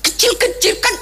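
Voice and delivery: high giggling aside. Real, not acted.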